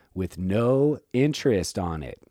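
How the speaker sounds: booming, very loud, very slow declaiming voice. Explaining colonial money to another speaker, said really loudly. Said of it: "I'm gonna say this really loudly".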